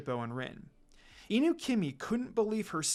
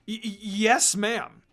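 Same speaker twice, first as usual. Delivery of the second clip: stammering fear; 4 semitones higher, 6 dB louder, slower than usual. Acted. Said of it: "Koga gulped in shock".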